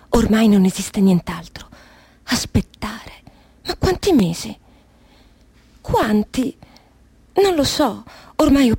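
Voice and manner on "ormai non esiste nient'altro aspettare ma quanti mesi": hushed, breathless whisper to herself. Acted. Prisoner whispering to herself in her cell, hushed whisper. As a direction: whisper it alone in the dark cell.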